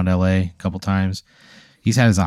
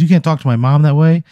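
put-on indignant kid; 6 semitones higher, 4 dB louder than usual. Kid stands up for his mom.

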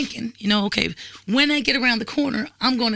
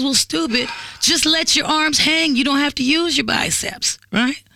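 condescending lecture; 4 semitones higher than usual. Retold or imitated. Boyfriend lecturing her about carrying beer bags, slow and condescending. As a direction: imitate him explaining the obvious to a fool. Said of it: "he goes".

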